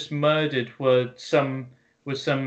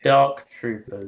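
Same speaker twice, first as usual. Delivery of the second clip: pointed correction; 4 semitones lower, slower than usual. Real, not acted. Slow correction of the co-host's wrong name.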